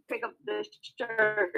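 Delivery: robotic, choppy voice over a bad line; glitchy bitcrushed connection. Real, not acted. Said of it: "you sound robotic".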